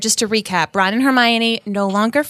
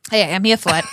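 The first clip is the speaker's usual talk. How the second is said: lower, put-on New York patter; New York accent; 4 semitones lower, faster than usual. Answering the Marisa Tomei comparison, New York accent. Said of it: "You're Marissa Tomei right now in, uh, My Cousin Vinny".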